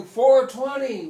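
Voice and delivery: loud, high, slow crowd response; chanted crowd answer; crowd yelling back. Retold or imitated. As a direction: shout it back like thousands in a crowd. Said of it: "And they're going".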